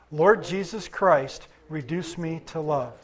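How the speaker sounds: slow, deliberate corporate prayer; led prayer. Real, not acted. Preacher leads congregation in praying together, slow measured prayer. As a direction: pray it slowly so everyone can join.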